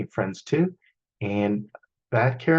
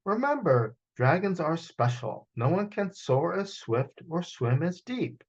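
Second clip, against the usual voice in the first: higher, gentle reminding mother; mama dragon; 6 semitones higher than usual. Acted. Mama reminds Dom, higher, gentle mother voice. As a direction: proudly remind your child. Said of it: "Mama reminded him".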